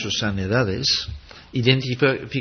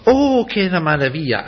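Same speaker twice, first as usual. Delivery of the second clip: higher, louder oh of mock delight; mock wonder; 6 semitones higher, 6 dB louder than usual. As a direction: overplay the cheap amazement. Shallow reaction to forgiveness.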